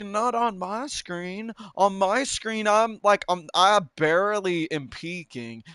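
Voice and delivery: indignant protest. Retold or imitated. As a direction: protest like the game cheated you. Retelling his argument with Sam.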